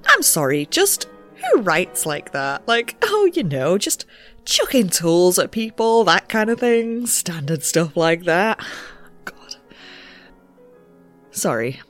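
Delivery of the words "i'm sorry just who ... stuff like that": louder, incredulous, on the verge of laughing; mock the letter's casual tone, trying not to laugh; amused outburst with drawn-out words; amused disbelief. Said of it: "I shouldn't laugh".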